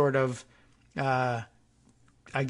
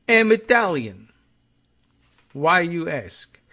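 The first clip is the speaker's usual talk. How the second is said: mocking the wife in a hammed-up Russian accent; 3 semitones higher, 4 dB louder than usual. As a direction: play the Russian wife insisting she's Italian, in a Russian accent. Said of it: "Russian accented wife".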